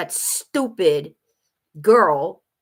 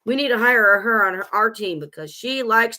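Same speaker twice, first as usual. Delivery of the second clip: higher, louder, excited recruiter voice; impressed recruiter; 4 semitones higher, 3 dB louder than usual. Pretend. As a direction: play an eager, impressed recruiter.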